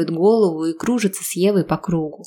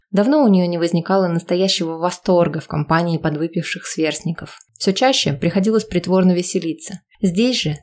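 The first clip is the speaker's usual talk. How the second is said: ordinary delivery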